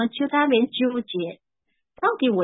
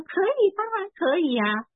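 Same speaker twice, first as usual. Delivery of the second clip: happy agreement; 9 semitones higher than usual. Retold or imitated. Stepfather happily agreeing to be called Daddy, lifted high voice. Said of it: "他很开心啊".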